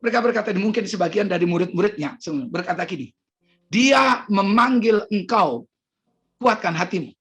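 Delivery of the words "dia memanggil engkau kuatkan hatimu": slow, drawn-out delivery; measured announcement. Retold or imitated. Disciples telling the blind man he is called, slow and measured. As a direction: deliver the news slowly, at usual pitch. Followers' words, first measured take.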